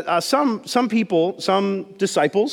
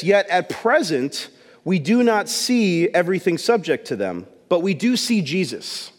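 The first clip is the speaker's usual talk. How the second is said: scripture reading. Shown as a demonstration. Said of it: "And it says this".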